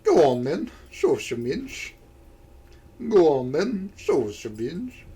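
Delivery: lightly attempted Irish voice; swooping mock-Irish lilt; Irish accent. Shown as a demonstration. Trying out an Irish voice before hardening it up, Irish accent. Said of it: "let me do an Irish voice".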